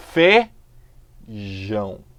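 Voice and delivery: "Feijão." very slowly, the fei glide drawn out; slow syllable demo. Shown as a demonstration. Teacher showing a falling diphthong slowly. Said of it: "ditongo que decresce".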